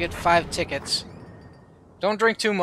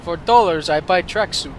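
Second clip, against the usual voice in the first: proud mock Russian accent, louder; broken English with a Russian accent; 5 dB louder than usual. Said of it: "he's Russian".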